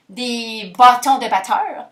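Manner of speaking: slow, drawn-out "bâtons de batteurs"; playing with sounds. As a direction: savour each sound of "bâtons de batteurs", stretching it. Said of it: "j'aime ça, les jeux de mots puis les sons". (« bâtons de batteurs » étiré lentement, en jouant sur les sons)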